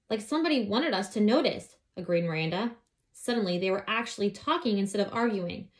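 put-on lively read-aloud voice for children; story narration. A narrator's reading. Reading a children's book aloud.

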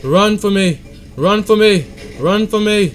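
put-on loud British-accented urging; mock British accent. Player urging polar bear to run, playful British accent. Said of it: "Why am I talking like this?".

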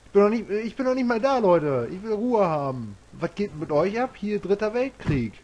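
loud, high, fed-up yelling at the enemies; real annoyed outburst; exasperated shout. Real, not acted. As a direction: shout them down, you just want some peace. Swarmed by enemies, yelling at them.

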